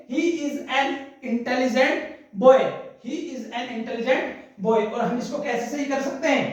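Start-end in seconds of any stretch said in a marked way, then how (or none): 0.1-4.8 slow, careful sentence for students; slow model sentence. Shown as a demonstration. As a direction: spell it out slowly, word by word. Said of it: "तो हम क्या लिखेंगे". (धीमे, साफ़ बोला गया वाक्य)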